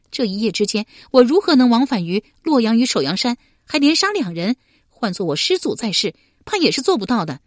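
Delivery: 又急又气，高声连连反问; 急着为自己辩白，声音拔高; 气急辩驳. A narrator's reading. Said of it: "佩娘气急道". (佩娘气急地向刘玲辩白)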